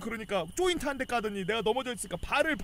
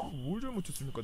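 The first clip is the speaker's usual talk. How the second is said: much softer, grinding out the question; through gritted teeth; 6 semitones lower, 10 dB quieter than usual. Retold or imitated. Soldier seething at his officer, softer, through gritted teeth. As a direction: hold back rage, words pressed through teeth. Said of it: "이빨 막 갈면서".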